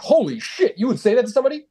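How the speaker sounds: the agent imitates a shocked listener, high and disbelieving. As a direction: gasp it out in shock. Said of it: "And you're like".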